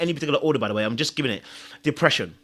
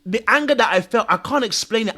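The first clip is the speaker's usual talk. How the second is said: ordinary talk, nothing marked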